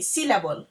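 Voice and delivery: syllable spelled out sound by sound, SIL-a-ble; model pronunciation. Shown as a demonstration. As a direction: say syllable for the class to repeat. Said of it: "Say with me".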